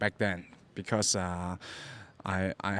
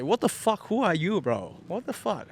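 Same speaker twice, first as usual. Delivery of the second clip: pitched-up retold "what the fuck" at a stranger; mock angry outburst; 7 semitones higher than usual. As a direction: replay your own flare-up, half-acted. Retold quarrel in nightclub.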